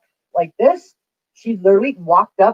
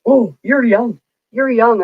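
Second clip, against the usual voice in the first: mocking the dismissive friend; 6 semitones higher, slower than usual. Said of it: "That's like my friend".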